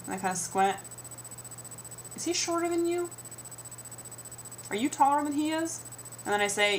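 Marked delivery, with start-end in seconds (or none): 2.1-5.8 mock nosy stranger. Strangers quizzing about heights.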